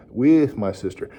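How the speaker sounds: "With" stressed and held, then "my sister". Shown as a demonstration. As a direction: model it with the weight on "With". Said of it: "Emphasize that word".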